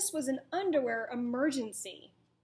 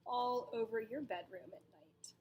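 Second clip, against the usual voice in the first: whisper; 6 dB quieter than usual. Real, not acted. Whispered question to kids.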